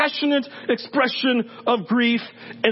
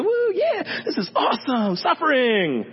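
mock excited cheer; 2 semitones higher than usual. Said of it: "But you have to".

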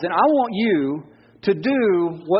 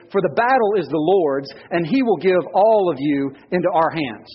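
scripture reading. Acted. Pastor reading David and Goliath to the congregation, measured. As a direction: read the passage with weight.

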